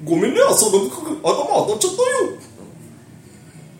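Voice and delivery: lightly voiced Goofy, slow; goofy cartoon dog voice, hint of; Goofy impression. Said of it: "テラビ君で、グーフィー。".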